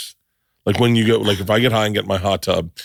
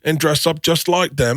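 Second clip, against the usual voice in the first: mocking English accent; 6 semitones higher than usual. Shown as a demonstration. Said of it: "do that accent back to them in a mocking way".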